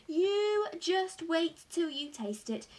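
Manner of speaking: loud, high raving, easing down at the end; savouring every word in delight; excited cry. A narrator's reading. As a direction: rave slowly and rapturously about the food. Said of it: "he cried".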